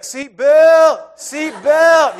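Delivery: high, loud mock kid yell; imitated kid's yell. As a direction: yell it like a little kid calling from the back seat. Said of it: "He's just saying it like that".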